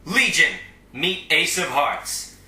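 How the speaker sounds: loud, slow showman's introduction; stately, loud presentation; grand announcement. Acted. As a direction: present them like a ringmaster. Grandly presents the heroes to villains.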